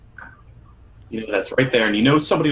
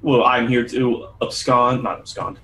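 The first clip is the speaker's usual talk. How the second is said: lightly voiced official, deliberate pace; lawman character, formal; slower than usual. Townsman announces his errand to adventurers, lightly voiced official. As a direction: state your business with careful authority.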